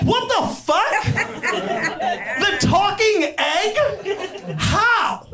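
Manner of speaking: slow, high disbelief; the king can't believe his egg is gone; mock royal outrage; shocked king. King hearing Humpty died.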